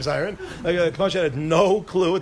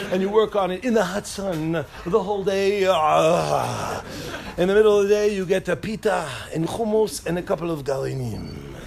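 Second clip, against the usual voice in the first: mock Israeli accent. Mimicking Israeli hell.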